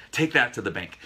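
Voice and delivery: put-on light nod to an old TV detective's catchphrase; Robert Blake catchphrase. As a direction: punch it out like a cop show line. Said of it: "Robert Blake, I think, uh, from, uh, Beretta".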